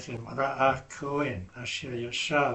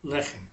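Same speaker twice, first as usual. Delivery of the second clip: "Lechem" stressed on LE; LE-chem, first syllable leading; accent on first syllable; 3 dB quieter than usual. Shown as a demonstration. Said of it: "have the accent on the first syllable".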